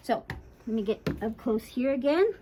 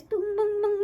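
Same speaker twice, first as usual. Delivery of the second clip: higher-pitched "boom" noises; imitated bouncing noise; 9 semitones higher than usual. Shown as a demonstration. Groomer showing a bouncing Dremel, imitated booming. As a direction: bounce the booms along. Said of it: "bouncing on it like this".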